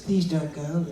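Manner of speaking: lightly put-on feminine plea. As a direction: beg gently as the lady dummy. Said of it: "let's find a nice feminine voice".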